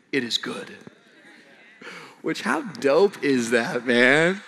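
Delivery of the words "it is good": much lower, softer, satisfied; God's voice. Pretend. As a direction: say it like God admiring his work. God voiced at creation.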